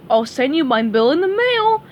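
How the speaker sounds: lightly voiced dopey starfish; Patrick voice. Patrick agrees to play doctor for SpongeBob, dopey eager voice.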